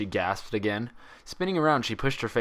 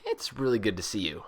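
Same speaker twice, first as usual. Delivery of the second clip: lightly voiced young mare, gentle; a touch of relief in her voice; Twilight voice; 2 semitones higher than usual. Twilight greeting her friend, lightly voiced and relieved.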